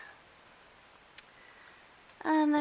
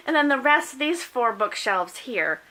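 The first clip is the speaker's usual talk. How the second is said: talking through hiccups; hiccuping mid sentence; 4 dB louder than usual. Real, not acted. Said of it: "I have the hiccups".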